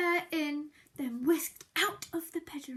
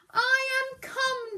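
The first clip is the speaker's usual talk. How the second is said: high, louder, slow cheerful mouse; cheerful declaration; 9 semitones higher, 5 dB louder than usual. Acted. Narrator voicing Mouse arriving, bright declaration. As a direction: announce it brightly as little Mouse. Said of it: "declared Mouse".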